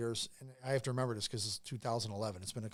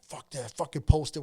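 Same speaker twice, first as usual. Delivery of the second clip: louder, mildly worked-up retold outburst; mock fired-up quote, pushed louder; imitating excited friend; 3 semitones higher, 7 dB louder than usual. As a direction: voice your friend getting fired up. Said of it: "he gets real excited about that shit".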